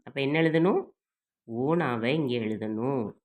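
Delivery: ordinary talk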